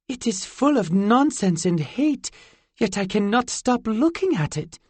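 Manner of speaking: a fairy caught by something she hates; fairy girl voice. A narrator's reading. Zinnia hooked on the internet.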